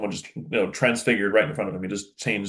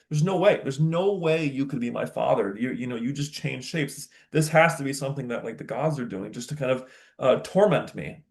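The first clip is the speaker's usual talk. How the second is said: higher, insistent disbelief in paraphrase; mock freaking out; 4 semitones higher than usual. Teacher imitating a son who doubts his father, mildly freaked out. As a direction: act out refusing to believe it, pitch jumping up at first. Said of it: "He's freaking out".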